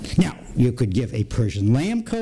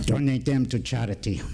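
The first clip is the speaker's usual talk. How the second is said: put-on European accent. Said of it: "in this thick European accent".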